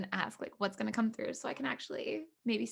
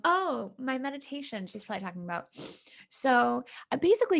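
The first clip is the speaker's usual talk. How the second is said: ordinary talk, nothing marked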